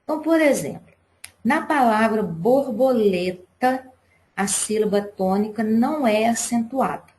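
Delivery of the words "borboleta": "borboleta" drawn out syllable by syllable; slow, spaced "bor-bo-le-ta". Shown as a demonstration. Teacher giving students an example word, syllable by syllable. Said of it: "Vocês percebem que quando a gente fala".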